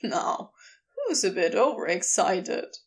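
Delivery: low, warmly amused tease; warm chuckling. A narrator's reading. Crowley teasing flustered Aziraphale, warm and amused. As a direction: tease him warmly, voice dropped. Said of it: "still chuckling warmly".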